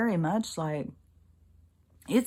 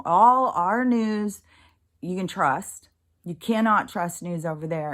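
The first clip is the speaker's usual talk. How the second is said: mocking quote; 4 dB louder than usual. Mocking the commenters' claims.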